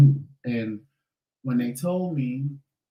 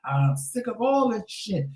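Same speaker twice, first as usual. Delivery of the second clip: high, slow exasperated venting; dramatic complaint; 7 semitones higher than usual. Retold or imitated. Patient venting at dialysis staff, high slow exasperated complaint. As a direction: wail it like a fed-up patient. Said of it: "I was being dramatic".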